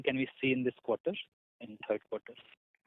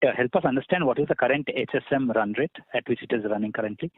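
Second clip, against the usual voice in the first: louder and clearer, pushing the voice; 6 dB louder than usual. Real, not acted. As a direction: speak up so the line carries. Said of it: "I'm actually on handset".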